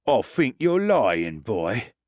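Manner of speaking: a menacing dwarf calling the bluff; dwarf Grossbeard accusing the narrator, slow menace. Acted. Dwarf Grossbeard voiced in story.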